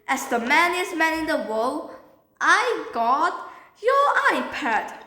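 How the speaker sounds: proud, emphatic declaration; boastful announcement. Acted. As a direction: announce yourself as the hero. Boastful announcement of finding iPad.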